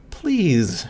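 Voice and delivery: a pained plea rising; beg, on the edge of tears; pleading. A narrator's reading. Overwhelmed narrator begging, voice starting to crack. Breaking down.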